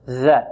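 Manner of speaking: ذال with the tongue tip pushed out; dhal articulation. Shown as a demonstration. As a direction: show ذال as an interdental, tongue tip between the teeth. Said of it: "يبرز طرف اللسان".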